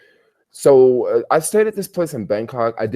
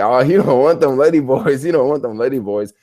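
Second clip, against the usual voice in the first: put-on European accent; 4 semitones higher, 4 dB louder than usual. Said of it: "with, like, a European accent".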